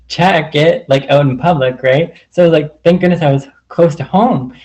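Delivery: normal talking voice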